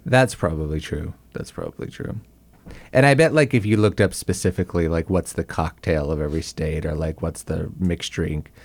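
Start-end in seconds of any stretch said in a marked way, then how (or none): 1.3-2.2 breathy whispered repeat. Shown as a demonstration. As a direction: whisper it to yourself. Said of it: "whispered repeat".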